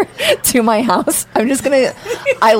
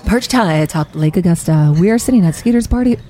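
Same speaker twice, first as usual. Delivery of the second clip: radio announcer voice; 4 semitones lower than usual. Acted. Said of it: "Oh, I can't do it".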